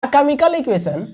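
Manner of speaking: very slow, spaced-out classroom dictation. Real, not acted. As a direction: dictate word by word with long pauses. Teacher dictating a definition to students. (धीरे-धीरे, रुक-रुक कर लिखवाते हुए)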